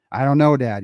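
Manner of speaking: mock-exasperated, leaning on "know"; frustrated child. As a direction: imitate your kid getting fed up with the questions. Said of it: "He started getting frustrated".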